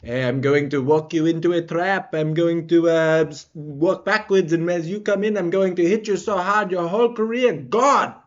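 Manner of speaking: put-on French accent; French-accented fighter's threat; Cyril Gane. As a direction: trash talk in a mock French accent. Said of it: "in his French accent".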